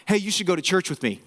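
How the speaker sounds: a hint of a miserable, angry inviter; miserable churchgoer's invitation. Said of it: "they're just miserable and they're angry".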